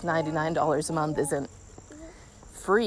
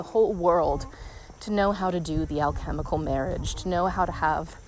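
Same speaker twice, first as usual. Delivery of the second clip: out of breath. Real, not acted. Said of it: "I'm getting a little bit out of breath walking up hills".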